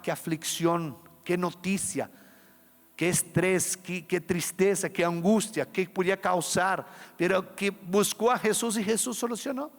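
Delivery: ordinary talk, nothing marked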